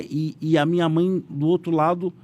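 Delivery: ordinary delivery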